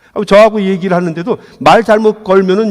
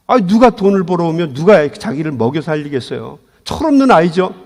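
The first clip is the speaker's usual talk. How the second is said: usual speaking voice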